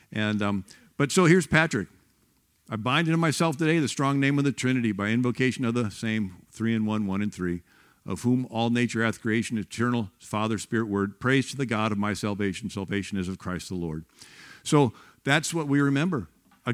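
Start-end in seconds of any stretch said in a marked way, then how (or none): 2.7-14.1 solemn prayer recitation. Acted. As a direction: recite it like a hymn text, steady and devout.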